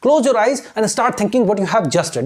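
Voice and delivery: slow, deliberate English for learners; slow demo English. Shown as a demonstration. Teacher reading English slowly to Hindi-speaking students. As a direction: read each word out slowly. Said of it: "मैं आपसे English में बोल रहा हूं".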